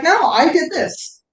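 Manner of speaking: firm owning-up. Retold or imitated. Speaker quotes a man taking the blame, emphatic. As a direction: own it emphatically, voice lifted.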